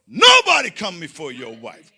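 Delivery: loud preacher wail; preaching cry. Acted. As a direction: cry it out like a sermon. Preaching, crying out.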